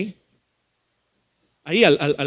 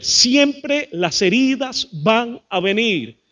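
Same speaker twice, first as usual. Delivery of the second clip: slow, each word set apart, weight on "Siempre"; emphatic; much slower than usual. Real, not acted. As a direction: drive home "Siempre" slowly, word by word. Slow emphatic repeat of key truth.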